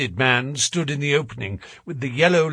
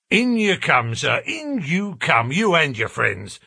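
welcoming porter; 4 semitones higher than usual. Acted. Porter cheerfully relents, welcoming them.

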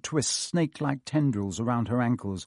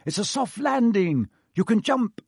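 calling up; 9 semitones higher than usual. A narrator's reading. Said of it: "he called up to the light".

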